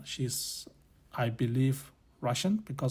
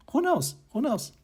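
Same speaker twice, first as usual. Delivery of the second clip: playful tease; 12 semitones higher than usual. Real, not acted. Playful teasing rhetorical question.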